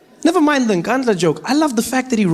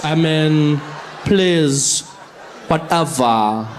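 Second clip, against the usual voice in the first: put-on eye-rolling valley girl drawl; slow, sassy, dismissive; sassy bored teen; 2 semitones lower, slower than usual. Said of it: "and he's like".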